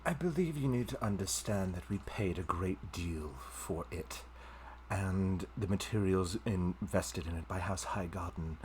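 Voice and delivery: cold, measured noble demand; haughty noblewoman. Acted. GM as the noblewoman demanding her property back. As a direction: look down on a commoner.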